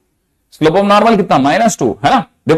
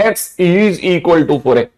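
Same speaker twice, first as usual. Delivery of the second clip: very slow, each word spaced; slow English read-out; much slower than usual. Shown as a demonstration. Teacher to class, reading the equation very slowly. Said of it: "English में is equal to".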